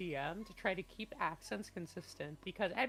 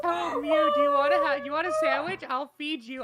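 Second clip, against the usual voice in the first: mock sweet offer; 8 semitones higher, 13 dB louder than usual.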